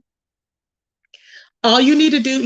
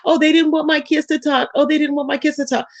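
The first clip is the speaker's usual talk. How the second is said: higher-pitched mock complaint; mocking quote; 4 semitones higher than usual. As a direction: parrot the excuse in a higher voice. Mocking the rival's excuse.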